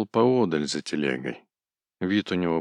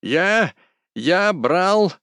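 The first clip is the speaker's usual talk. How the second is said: much higher, louder squealing shout; high shrieking yell; 11 semitones higher, 6 dB louder, much slower than usual. A narrator's reading. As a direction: shriek it in a piercing pitch. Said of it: "закричал высоким визжащим голосом".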